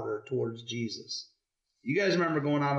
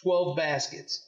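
measured read-aloud with weighted key words; story reading to children; slower than usual. Acted. Parent reading the loaves story to kids, measured storytelling. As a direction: read it out clearly for young listeners.

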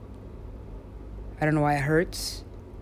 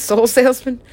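higher, louder, laughing disbelief; laughing question; 6 semitones higher, 8 dB louder than usual. Real, not acted. Laughing at the character they made up, amused question. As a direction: ask it through a laugh.

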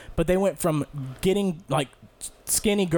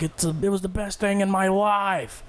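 put-on kid's happy voice; 4 semitones higher than usual. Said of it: "He was like".

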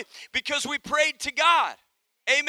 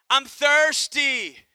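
put-on whiny child; 4 dB louder, much slower than usual. Boy whining to father.

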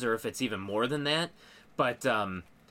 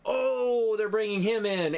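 high, loud burst of excitement; excited gasp; 9 semitones higher, 3 dB louder than usual. Retold or imitated. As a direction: blurt it out like a fan seeing a surprise. Reliving own excited reaction.

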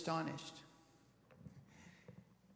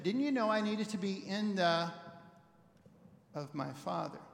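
a slower, deliberate read; slow it down a little, let the gap land; same line taken more slowly. Shown as a demonstration. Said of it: "Slow it down just a little bit".

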